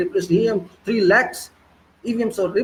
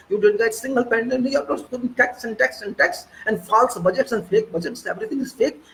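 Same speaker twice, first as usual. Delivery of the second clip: agitated, higher-pitched accusation; worked-up rant; 5 semitones higher than usual. Real, not acted. Speaker accusing the government over taxes and budgets, worked up. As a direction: pile up the charges, voice riding high. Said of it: "sorry for this excitement".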